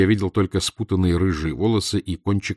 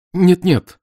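higher, louder urgent protest; exclaiming; 11 semitones higher, 10 dB louder than usual. A narrator's reading. Visitor stopping the professor ending talks, exclaiming. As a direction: cry out to stop him. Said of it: "воскликнул я".

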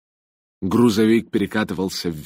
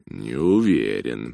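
slow, lower, drawn-out doubt; drawled doubtfully; 6 semitones lower, slower than usual. A narrator's reading. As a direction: stretch the words out hesitantly. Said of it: "протянул Джонатан". (протяжно, с сомнением)

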